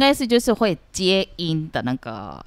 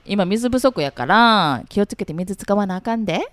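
gentle Kansai; 2 semitones higher than usual. Shown as a demonstration. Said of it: "如果用温柔的".

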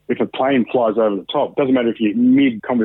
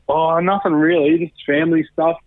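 breezy brush-off, pitched higher; higher-pitched, casual dismissal; retold downplaying; 5 semitones higher than usual. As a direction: play it down as if it's nothing. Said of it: "trying to, like, downplay it".

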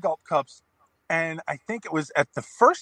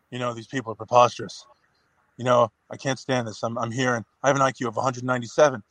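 voice inside Raven's head; 5 semitones lower than usual. Retold or imitated. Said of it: "talking as if I'm the voice inside of Raven's head".

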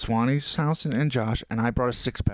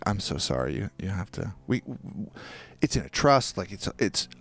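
low, gentle retold apology; sweet, apologetic; 3 semitones lower than usual. Owner apologizing to the tenant she must let go, gently sweet. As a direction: let her down kindly, mildly sorry. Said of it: "She was so sweet".

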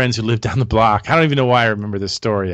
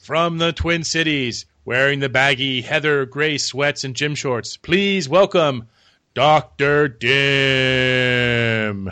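ring announcer; slower than usual. Acted. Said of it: "I enjoy using the baritone voice again".

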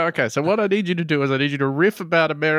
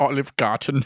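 mock German accent, amused. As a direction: echo it in a put-on German accent. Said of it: "getting more German".

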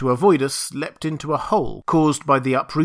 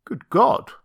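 shocked exclamation; 9 semitones higher, 4 dB louder than usual. Acted. Montgomery finds gnawed rabbit.

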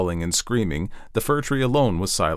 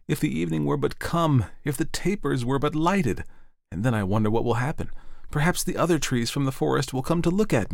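a hint of an eager young tree, pitched higher; the tree's daydream, a touch higher and hopeful; lightly voiced fir tree; 5 semitones higher than usual. The fir tree dreaming of the evening, lightly hopeful.

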